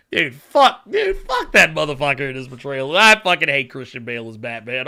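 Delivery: loud, heated outburst; angry rant. Real, not acted. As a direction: vent the frustration loudly. Ranting about Bale's Batman.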